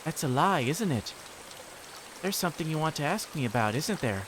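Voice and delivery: sweetly insistent, with menace underneath; sweet creepy girl. Acted. Reina coaxing Keiichi to talk, creepy sweetness.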